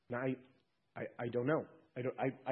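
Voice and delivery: a hint of a flustered thief; confused thief. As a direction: stumble for words, lost. Thief unsure at heaven's gate.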